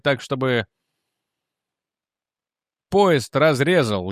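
a hint of a bitter condemned man; bitter confession letter. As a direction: read it as a spiteful dying confession. Reads the dead man's confession. (горькая предсмертная исповедь)

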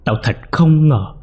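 high, loud furious mother yelling at her son; shouting mother. A narrator's reading. Mother throws her gambling son out, furious shout. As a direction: scream it at the son, trembling with rage. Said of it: "chỉ vào mặt của thằng Bình mà quát".

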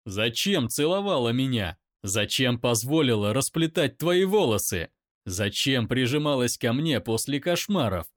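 loud shout back; loud pained shout; angry shout. Acted. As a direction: roar it in pain. Daimon shouts.

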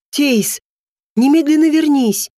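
loud angry growl. A narrator's reading. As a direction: growl the command after her. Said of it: "рычал владыка".

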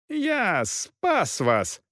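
red-faced captain yelling at the knight, slow and high; furious yell. A narrator's reading. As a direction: stretch out each word in rage. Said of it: "заорал фон Финк багровее".

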